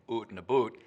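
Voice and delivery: OOT and a BOOT with a long oo; caricatured oo in OOT and BOOT; stereotyped Canadian vowel. Shown as a demonstration. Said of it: "Canadians aren't actually saying".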